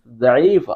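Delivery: ضعیفہ said slowly with an Arabic ض; Arabic pronunciation. Shown as a demonstration. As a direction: pronounce ضعیفہ the Arabic way, drawn out. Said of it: "دال سے اس کی pronunciation لیں گے".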